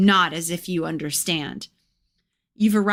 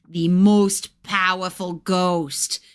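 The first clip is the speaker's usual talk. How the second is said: slow McFarlane voice; 3 dB louder, much slower than usual. Acted. McFarlane explains the ghost, dramatically.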